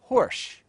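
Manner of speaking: "horsh", the s turned to sh before shoe; assimilated horsh. Shown as a demonstration. Teacher demonstrates "horsh" with sh in place of s. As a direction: say "horsh" with sh for the s, as in horseshoe. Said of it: "it is pronounced horsh".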